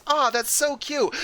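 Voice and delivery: high, slow mock coo; imitated cooing. Woman admiring baby alligator, imitated cooing. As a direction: gush slowly over a tiny creature. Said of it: "And she goes".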